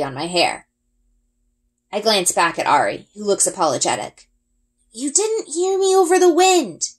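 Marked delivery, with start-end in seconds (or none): 4.9-6.9 high, loud shout over the wind. A narrator's reading. Ari shouting to her on the flying creature, loud. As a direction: call out over roaring wind. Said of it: "he shouts".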